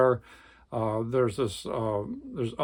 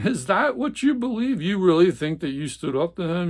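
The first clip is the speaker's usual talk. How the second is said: much higher and louder, incredulous; incredulous scoff; 6 semitones higher, 4 dB louder than usual. Acted. Jerry mocking the Swede, incredulous scoff. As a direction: scoff in disbelief.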